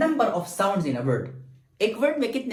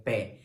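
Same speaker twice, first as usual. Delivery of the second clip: "पे" drawn out in a low tone; lengthened syllable; 8 semitones lower, 5 dB quieter than usual. Shown as a demonstration. Teacher showing the longer syllable, "पे" stretched. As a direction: hold the vowel of "पे" longer. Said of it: "हम इसको longer कर सकते हैं".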